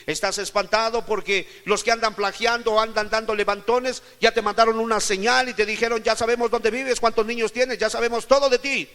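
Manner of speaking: high, driving sermon list; impassioned preaching. Acted. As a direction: pile up the troubles in a high, urgent preaching voice. Preaches at full force. (predicación enérgica, en tono alto y apremiante)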